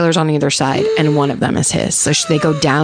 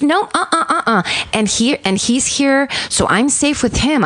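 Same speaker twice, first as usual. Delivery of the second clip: high, sweet and calm, hiding panic; cheery tone over a desperate plea; lightly voiced pleasant caller; calm victim voice; 6 semitones higher than usual. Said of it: "the words she's saying don't match her tone".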